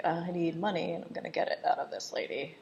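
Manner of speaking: soft, half-whispered retold thought; hushed scheming aside. Michael Caine plotting to get lady's money, hushed aside. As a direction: say it under the breath, as a private plan.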